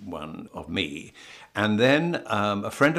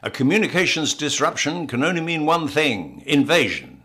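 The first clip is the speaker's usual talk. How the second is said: lightly declaimed, higher-pitched film line; quoted film line; 5 semitones higher, 4 dB louder than usual. Acted. Actor recites his character's favourite line, lightly declaimed warning. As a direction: deliver it as a portentous warning, mildly theatrical. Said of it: "my favourite line is".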